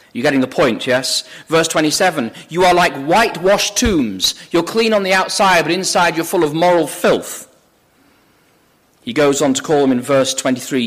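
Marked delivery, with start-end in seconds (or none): 2.5-7.5 higher, emphatic quoted rebuke; mildly hammered-out condemnation; preacherly denunciation. Acted. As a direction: declaim the rebuke from the pulpit. Preacher voices Jesus denouncing Pharisees.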